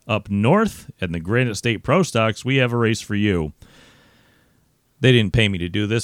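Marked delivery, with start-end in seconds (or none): 0.1-3.5 promo voice. Pretend. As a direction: sell the race like a big promo. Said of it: "I'm just doing my promo voice".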